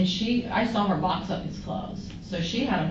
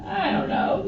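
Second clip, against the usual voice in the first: much higher, helpless "I don't know"; baffled I don't know; 14 semitones higher, 3 dB louder, slower than usual. Retold or imitated. To Charles asking about his truck, a high baffled reply. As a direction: throw it up high, at a loss. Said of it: "And I'm like".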